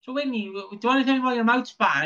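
mock questioning carer. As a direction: playfully grill the kid about her cheeks. Voicing the carer questioning Brittany.

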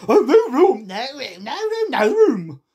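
loud, high character shout; high-pitched hollering; crying out. A narrator's reading. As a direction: call out in alarm like storybook creatures. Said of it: "they cried out".

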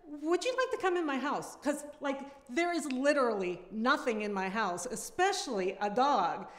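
fed-up neighbor rant that keeps climbing; Sharon's tirade. Acted. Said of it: "I am reading Sharon's tirade".

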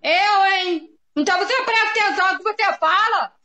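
fast, high-pitched scolding; real angry yelling. Real, not acted. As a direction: tell them off at a yell. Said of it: "Por que que você tá gritando, Maria?". (bronca gritada, aguda e rápida)

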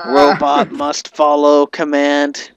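slow, stiff robot voice; lightly voiced obedient robot.

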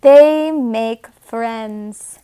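slow whispered line; whispered aside. Acted. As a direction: whisper it slowly like a secret. Reading to a child.

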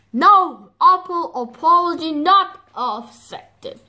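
high, huffy rejection; indignant refusal. Acted. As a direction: turn down the apology in a huff. Mommy refuses the apology.

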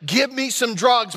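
lightly voiced wife insisting on relief; imitated demanding wife. Wife in labor to her husband, lightly imitated demand. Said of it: "the voice that came out".

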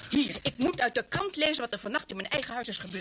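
indignant reproach building; furious mother confronting daughter; angry scolding. Acted.

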